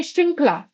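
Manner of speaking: श्रृंखला said with री only; slightly quick श्रृंखला, री as the vowel; correct pronunciation. Shown as a demonstration. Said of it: "ये गलत हो जाता है". (श्रृंखला सही ढंग से)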